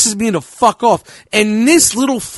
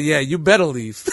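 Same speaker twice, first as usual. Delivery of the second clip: tough guy; 5 semitones lower, 3 dB quieter than usual. Retold or imitated. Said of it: "Tough guy".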